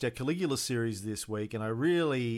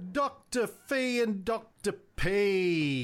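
laughing; 8 semitones higher, much slower than usual. Real, not acted. Jokey nicknames, laughing.

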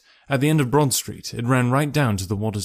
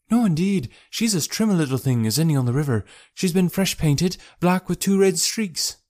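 high-pitched indignant working woman; boatman's wife, proud; 6 semitones higher than usual. Acted.

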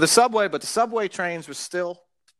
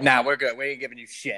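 smug dismissive country; 6 semitones lower than usual. Retold or imitated. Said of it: "They're like".

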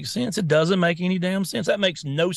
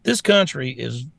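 put-on grumpy old man; 2 semitones higher, 5 dB louder than usual. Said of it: "Get off my lawn".

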